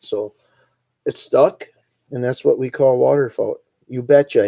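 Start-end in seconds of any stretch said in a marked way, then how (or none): 3.9-4.5 "You betcha" punched out loud, Northwoods Wisconsin style; hearty Upper Midwest "You betcha". Shown as a demonstration. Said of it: "That's another one".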